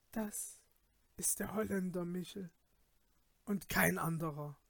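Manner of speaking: soft fearful inner voice; hushed frightened murmur; frightened thought. A narrator's reading. (leise, ängstlich gedacht)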